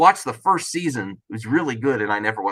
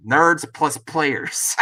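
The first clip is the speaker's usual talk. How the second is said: slow quote; much slower than usual. Retold or imitated. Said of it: "He says".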